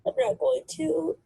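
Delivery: crying. Real, not acted. Crying refusal.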